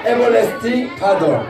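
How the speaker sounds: very slow read-along; slow group reading. Shown as a demonstration. 설교자가 아이들과 함께 읽으며 아주 천천히. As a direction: lead the children through Everlasting Father slowly. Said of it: "같이 한번 읽어봅시다".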